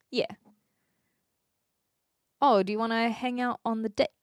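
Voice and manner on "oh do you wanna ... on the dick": "deck" in a Kiwi accent, with a short, tight vowel close to "dick". Shown as a demonstration. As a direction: hang out on the "dick", Kiwi-style. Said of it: "'Cause that's a Kiwi accent".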